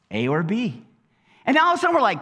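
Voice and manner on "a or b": God answering. Retold or imitated. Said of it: "And God says".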